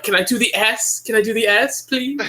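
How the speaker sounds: high, pleading whine; pleading little voice. Retold or imitated. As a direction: beg like a small kid. Begging voice quoting Scanlan.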